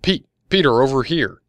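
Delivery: high, loud call across a crowd; shouting. A narrator's reading. Woman shouting to a friend far off across the crowd. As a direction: holler to catch his attention. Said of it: "Adriana was shouting".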